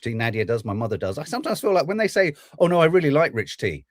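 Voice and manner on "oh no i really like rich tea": mock provocative tone. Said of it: "in an almost provocative way".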